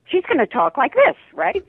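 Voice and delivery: high-pitched Southern California character accent. Shown as a demonstration. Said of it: "this, uh, this accent".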